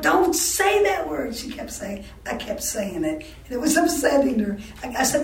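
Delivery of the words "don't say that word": imitated scandalized mother. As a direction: imitate an upset mother, stretching every word. Mother forbids the word again.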